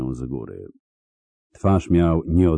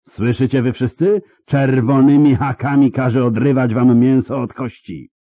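higher, louder rising threat; mounting threat; 6 semitones higher, 5 dB louder than usual. Acted. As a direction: build to a gloating, cruel promise. Coroner threatens all rebels.

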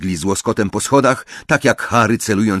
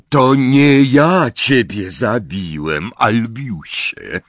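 calm voice; 4 semitones higher, 4 dB louder, slower than usual. A narrator's reading. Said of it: "powiedział spokojny głos".

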